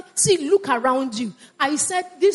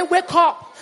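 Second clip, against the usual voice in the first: raised preacher's call; rousing shout; 4 semitones higher than usual. Real, not acted. Preacher waking up the congregation, rousing shout. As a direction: shout to rouse them.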